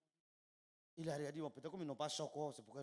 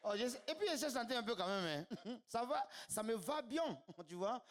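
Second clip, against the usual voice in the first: chuckling between words; laughing; 9 semitones higher, 7 dB louder than usual. Real, not acted. Comedian laughing at himself after singing, laughing. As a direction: laugh it off proudly.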